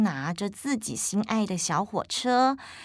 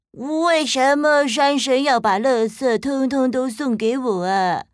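put-on child voice; 3 semitones higher, 4 dB louder than usual. Boy asks parents.

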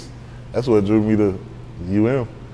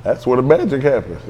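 laughing. Real, not acted. Laughing at own toilet story.

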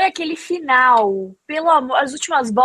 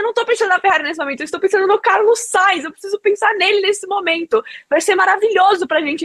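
retold yell; 6 semitones higher than usual. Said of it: "Eu comecei a gritar".

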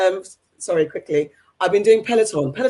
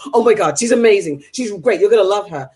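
pushy gushing; 4 dB louder than usual. Retold or imitated. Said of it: "breathing down my shoulder like".

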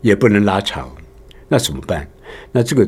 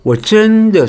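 真 stretched out, high and loud; stress panjang pada 真; 12 semitones higher, 5 dB louder, much slower than usual. Shown as a demonstration. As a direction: drag 真 out like a speech-contest speaker. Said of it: "重音它会发的比较长一点".

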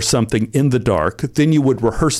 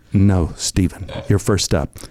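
lower-pitched, unmoved refusal; low, firm refusal; 5 semitones lower than usual. Retold or imitated. Assistant refusing the actor's bribe, low and unmoved. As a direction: turn him down calmly, voice dropped.

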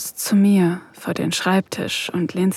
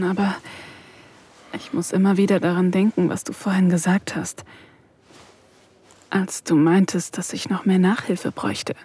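ordinary talk

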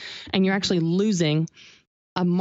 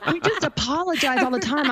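laughing through the line; amused, giggling admission; 8 semitones higher than usual. Real, not acted. Laughing about Canadians apologizing.

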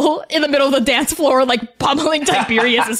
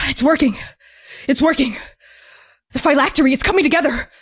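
hushed marvelling, words spaced out; lightly voiced dad in wonder; awed father; 3 semitones higher, faster than usual. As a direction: marvel as your ritual starts to work. Father's face lights up at ritual.

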